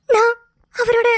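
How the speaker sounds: slow, tearful catch on the words; hurt wife fighting back sobs; crying. Acted. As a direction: drag it out through tears. Wife recalls friend's warning.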